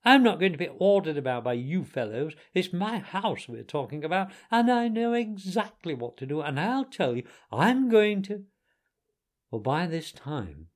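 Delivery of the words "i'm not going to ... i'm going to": worked-up, defiant Toad; heated insistence, cut off at the end; excited protest. A narrator's reading. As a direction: protest indignantly, pitch climbing. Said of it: "getting excited".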